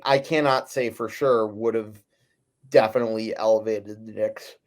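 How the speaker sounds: talking through a yawn; words stretched by a yawn. Real, not acted. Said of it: "Sorry, I cannot keep yawning".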